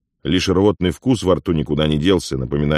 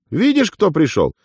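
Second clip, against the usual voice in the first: gleeful; 11 semitones higher than usual. Acted. Afonya boasts to Uigur about his returned friend, gleeful.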